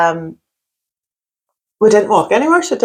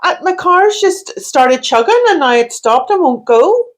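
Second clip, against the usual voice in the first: a stranded driver; 5 semitones higher than usual. Acted. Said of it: "I've broken down in my car".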